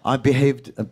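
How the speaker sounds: put-on light British accent, sheepish; a hint of Hugh Grant's British accent; Hugh Grant impression. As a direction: apologise like a polite Briton. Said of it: "It was like".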